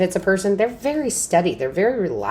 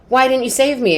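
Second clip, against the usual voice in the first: high-pitched mock complaint to God; indignant question; 9 semitones higher, 4 dB louder than usual. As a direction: whine it up at God, lightly. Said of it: "he goes".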